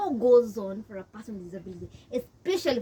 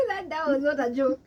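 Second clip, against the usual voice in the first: laughing; 3 semitones higher than usual. Real, not acted. Laughing recalling the witch doctor.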